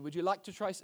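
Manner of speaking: put-on a light Caribbean waiter accent; imitated Caribbean accent. Pastor mimics a waiter offering hors d'oeuvres, imitated accent. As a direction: offer food in a mild imitated island accent. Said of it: "I'm gonna stop doing the accents".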